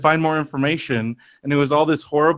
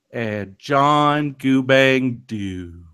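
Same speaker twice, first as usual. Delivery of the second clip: drawn-out sign-off; much slower than usual. Acted. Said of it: "show sign-off catchphrase".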